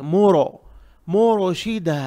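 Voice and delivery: मुरशिदा with a heavy, rounded mo-ro; thick ra. Shown as a demonstration. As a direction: say मोरो dark and full, not thin. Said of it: "रॉ को मोटा पढ़ेंगे".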